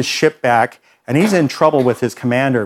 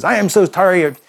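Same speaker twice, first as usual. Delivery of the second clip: angry threat; 5 semitones higher than usual. Retold or imitated. Young offender in the counselor's face, raised angry voice. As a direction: voice raised and pushed, in his face. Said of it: "finally he gets upset with me".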